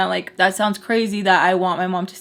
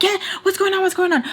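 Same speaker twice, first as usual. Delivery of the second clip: high, urgent questioning; imitated alarm; 11 semitones higher, faster than usual. Boyfriend rushing downstairs at a scream, imitated alarm. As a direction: ask it in a startled high voice.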